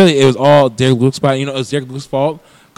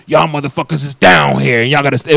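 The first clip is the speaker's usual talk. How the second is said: movie devil's line. Retold or imitated. Retelling the devil's iconic line to his victims, lightly acted menace. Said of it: "he's like".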